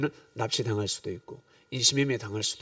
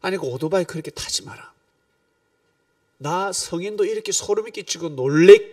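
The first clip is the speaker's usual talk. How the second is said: imagined scolding; 5 semitones higher, 5 dB louder than usual. Pretend. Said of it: "제가 따졌을 겁니다".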